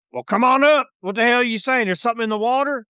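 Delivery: pirate captain scolding the rowboat crew; irritated pirate captain. Acted. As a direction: bark down at the boat, annoyed. GM voices the ship's captain.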